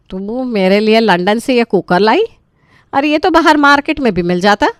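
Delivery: can't believe she got a cooker; indignant disbelief. Acted. Mother, outraged, receives only a cooker from London.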